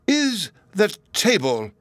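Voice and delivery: wife eagerly echoing her husband; eager sympathy. A narrator's reading. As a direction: chime in eagerly with the angry husband. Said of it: "in eager sympathy".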